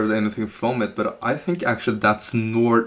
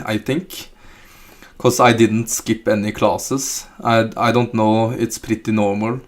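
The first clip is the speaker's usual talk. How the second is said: reading chat in a thick Norwegian accent; 3 dB louder than usual. Shown as a demonstration. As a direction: lay on a heavy Norwegian lilt while reading the messages aloud. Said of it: "I can give you some examples".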